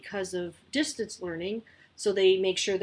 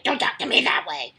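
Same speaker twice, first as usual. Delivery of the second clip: sharp, louder scolding snap; nasty voice back; 4 semitones higher, 7 dB louder than usual. Retold or imitated. Mom imitating her instinctive nasty reply to Pippa, loud snap. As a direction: bark it back at a sassy kid. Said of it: "I use a nasty voice back to them".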